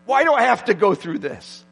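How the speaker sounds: a petty grumble lifted up to God; whiny prayer. Retold or imitated. Preacher mocking his own complaint to God, whiny. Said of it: "And I'm like".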